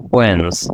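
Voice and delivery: ওয়েন্স as one syllable, 'wens', falling low; sounds blended together. Shown as a demonstration. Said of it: "এইভাবে বিষয়টা হচ্ছে". (একসাথে মিলিয়ে এক টানে 'ওয়েন্স')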